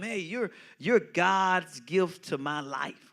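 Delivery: put-on slow, tender words at a child's eye level. Shown as a demonstration. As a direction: kneel down and speak gently, slowly. Kneeling, talking to a child.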